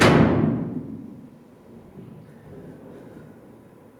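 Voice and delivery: loud breathy burst trailing away; outburst laugh. Acted. Patient after demanding a flame, outburst laugh. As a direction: burst out, then let it die away.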